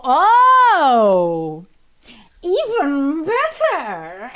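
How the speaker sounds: a loud oh, then a slow, savoured even better; real delight at the news; pleased, drawn-out exclamation; delighted surprise. Real, not acted. Reacting to chat with delight.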